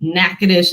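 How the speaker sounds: Natchitoches stressed on NACK; NACK-uh-dish, front-stressed Natchitoches; stress at beginning. Shown as a demonstration. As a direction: punch the first syllable of Natchitoches. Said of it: "is at the beginning".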